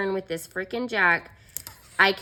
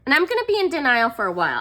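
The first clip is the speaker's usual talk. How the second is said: ordinary delivery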